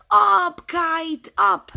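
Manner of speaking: high, loud burst on the first word; loud cheer to the kite; storybook shout. Acted. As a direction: shout it in separate, punched words. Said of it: "And then he shouted".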